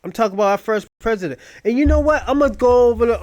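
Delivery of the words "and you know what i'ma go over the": loud. Real, not acted. Building to a bold claim.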